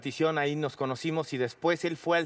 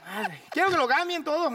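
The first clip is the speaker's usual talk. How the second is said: high, loud slurred boxer voice; Julio Chávez impression; 14 semitones higher, 4 dB louder than usual. Complaining to the producer, mock Julio voice. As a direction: do Julio complaining, all stammer. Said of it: "muy brocado".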